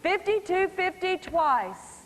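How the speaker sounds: slow, drawn-out call of twice after a held pause; slow showman's auction call; deliberate auction pause. Shown as a demonstration. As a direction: let the silence hang, then call twice. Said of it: "Notice how I pause".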